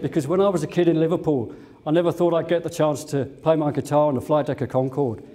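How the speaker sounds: just a hint of the singer's voice without the accent; a famous singer, no accent. Pilot quotes a famous singer greeting him in the galley, lightly voiced. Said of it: "and I can't do his accent".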